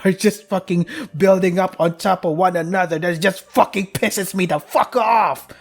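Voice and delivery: half-laughing rant building to a high exasperated peak; frustrated rant. Real, not acted. Streamer venting about typos and endings, building to exasperation. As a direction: vent it, laughing at first, then boiling over.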